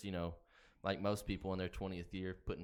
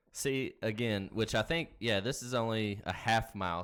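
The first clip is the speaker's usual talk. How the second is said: excited; 2 semitones higher, 7 dB louder than usual. Real, not acted. Excited race talk.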